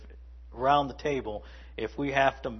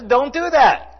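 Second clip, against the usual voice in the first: loud, high stern "don't"; louder, higher apostle's command; firm command; 11 semitones higher, 11 dB louder, slower than usual. Retold or imitated. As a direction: forbid it with force. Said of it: "Paul says".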